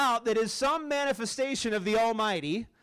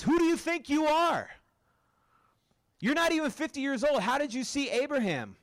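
challenging Pharisees; 6 semitones higher than usual. Acted.

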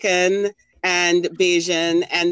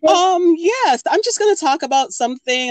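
high, breezy imitation of a friend being vague; mock-casual friend brushing off the question; mimicking Shireen; 9 semitones higher than usual. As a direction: play it airy and evasive, voice up high. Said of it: "Shireen's like".

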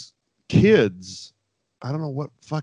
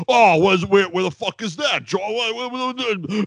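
Taz; 8 semitones higher than usual. Retold or imitated. Threatened commentator reacts to hearing Georgia, imitated flustered sputtering. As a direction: sputter repeated words in exaggerated bafflement. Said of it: "so threatened and so nervous".

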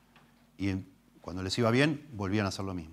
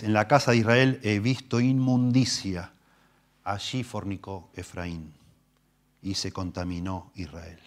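scripture reading; slower than usual. Acted. Reads verse ten.

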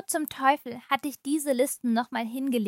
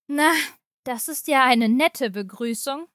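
irritated; 4 dB louder than usual. Acted. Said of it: "erwiderte Agatha gereizt".

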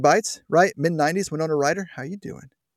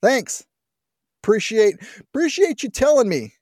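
higher, mocking thank-you; sarcastic thanks; 6 semitones higher than usual. Real, not acted. Host mocking the bureaucrat with a higher, sarcastic thanks. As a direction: thank him with dripping sarcasm.

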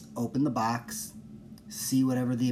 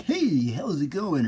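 slow, higher hammed-up hello; mock hype greeting; 4 semitones higher, 4 dB louder, slower than usual. Podcaster mocking energetic intros with a hammed-up hello. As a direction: parody of a peppy podcast intro. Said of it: "or something ridiculous".

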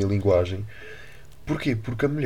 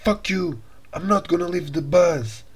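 mock angry English; 8 semitones higher, much slower than usual. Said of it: "Começou assim".

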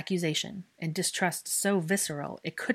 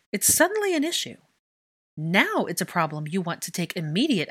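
impassioned accusation; 3 semitones higher, 4 dB louder than usual. Acted. Hermione condemning the Wizengamot.

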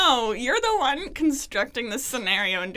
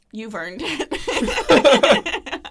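coy flirty reply; 4 semitones higher, 7 dB louder, much slower than usual. Acted. Anna's role-play reply, drawn out.

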